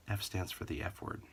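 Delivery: normal talking voice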